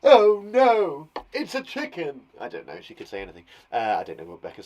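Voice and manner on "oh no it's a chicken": loud, higher hammed-up cry of horror; mock horror. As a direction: play Rebecca's mock panic. Voicing Rebecca's horror.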